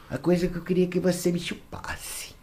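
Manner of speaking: mock seductive whisper; whispered request. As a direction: breathe it like a secret.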